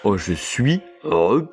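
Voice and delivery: put-on Marseille accent. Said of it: "des mots un peu soutenus avec l'accent marseillais".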